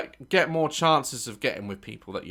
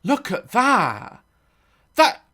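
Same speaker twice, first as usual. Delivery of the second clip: high, loud and slow astonishment; appalled at the X-ray; shocked disbelief; 11 semitones higher, 11 dB louder, slower than usual. Real, not acted. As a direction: draw it out in horror.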